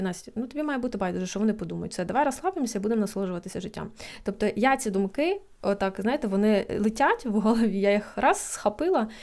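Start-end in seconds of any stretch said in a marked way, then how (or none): 0.0-3.9 calm, quick pep talk to herself; self-reassurance. Retold or imitated. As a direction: tell yourself to relax. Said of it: "зараз собі говорю". (заспокоює себе)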